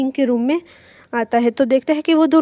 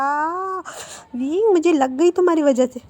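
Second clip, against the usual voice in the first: pained cry; 5 semitones higher than usual. Acted. Boy kicked off the bed complains to his friend: high pained whine. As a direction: whine after a hard fall.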